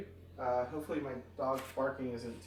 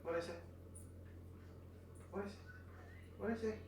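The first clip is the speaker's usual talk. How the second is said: scolding the dog; 3 semitones higher, 14 dB quieter, much faster than usual. Real, not acted. Correcting the dog softly.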